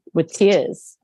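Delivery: speaking through real tears; emotional, close to crying; tearful. Real, not acted. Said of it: "I'm not a crier here".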